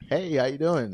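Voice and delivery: lightly voiced Southern accent; a hint of friendly Southern hello; Southern greeting. Mocking their own picked-up Southern habit, light Southern accent. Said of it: "too much of that, like, Southern".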